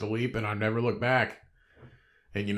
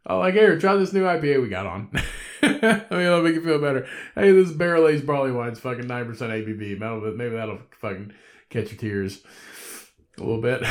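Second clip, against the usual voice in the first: mock consoling; 3 semitones higher, 6 dB louder than usual. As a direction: tease the whiner with a beer. Mock-consoling complainer with beer.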